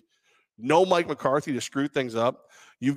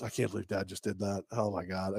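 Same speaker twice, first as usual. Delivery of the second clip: put-on disgusted baby voice; 5 semitones lower, 12 dB quieter than usual. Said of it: "looks at you and goes".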